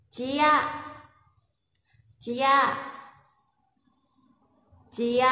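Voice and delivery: "Chia" short with a rise; Lao mai tho tone. Shown as a demonstration. Teacher models the tone for students. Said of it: "có hai cách để phát âm".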